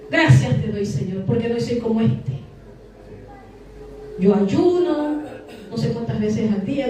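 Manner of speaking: lightly voiced pompous Pharisee; a hint of haughty religious boasting; self-righteous religious man. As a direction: pray with smug, mock piety. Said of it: "la oración del religioso".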